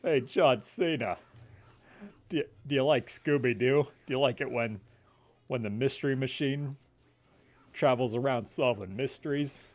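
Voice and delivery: lightly voiced deadpan actor impression; measured delivery, pausing between phrases; Patrick Warburton. Gamer offers a celebrity impression, lightly put on and measured. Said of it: "I can do a Patrick Warburton impression".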